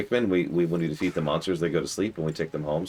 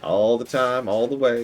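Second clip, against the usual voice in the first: higher-pitched put-on cowboy accent; 5 semitones higher than usual. Insisting it's the everyday voice, cowboy accent. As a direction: keep up the hammy cowboy act. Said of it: "cowboy voice".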